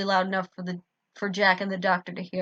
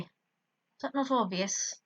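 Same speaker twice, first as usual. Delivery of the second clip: slow, dry sarcasm; a sarcastic jab at Jack; 3 semitones higher, 5 dB quieter, much slower than usual. Acted. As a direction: drag it out with biting sarcasm. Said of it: "I sarcastically asked him".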